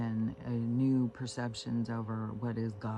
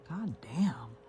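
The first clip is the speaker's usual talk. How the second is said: whispered curse of disgust. Real, not acted. Woman ranting about politics, whispering a curse. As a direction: mutter it voicelessly, fed up. Ranting under her breath.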